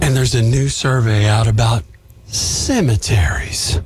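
low spooky voice with a whispered cemeteries; scary voice. Acted. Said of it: "I wanted to give you my scary voice".

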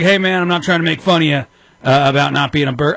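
a hint of a buddy's teasing voice; Chris X impression. Host mimics his co-host teasing him off air, lightly voiced. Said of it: "this is my Chris X impression".

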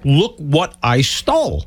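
slow, drawn-out mock bragging; proud boast. Host mimics woman in subway photo, proudly gloating. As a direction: imitate a smug show-off, stretching the words. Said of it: "like, all proudly".

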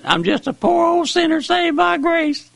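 fervent cry. Real, not acted. Preacher cries out his confession.

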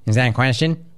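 lightly voiced Rex Lee, rising on question; Rex Lee impression. Host teasing Will as Rex Lee, lightly voiced. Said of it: "let me go Rex Lee for you".

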